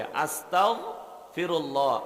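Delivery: slow "আস্তাগফিরুল্লাহ" with a long "আ" and a soft "গ". Shown as a demonstration. Preacher repeats the correct soft form for listeners. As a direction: draw out "আস্তাগফিরুল্লাহ", keeping "গফি" soft. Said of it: "নরম কইরে".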